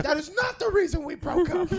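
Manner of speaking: high mock comeback in the row; mock angry retort. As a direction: snap back like in a fight. Acted quarrel retold.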